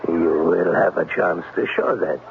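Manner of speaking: put-on menacing German accent. German-accented Klemper hints at what he wants once they're alone. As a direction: let the threat creep into the German accent.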